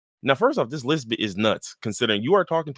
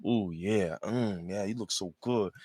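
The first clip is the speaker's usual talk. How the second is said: low, soft appreciative croon; mock smitten admirer; 3 semitones lower, 9 dB quieter, slower than usual.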